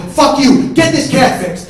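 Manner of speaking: first burst of a shouted ultimatum; angry yell. Acted. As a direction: shout back furiously. Escalating acted shouting match.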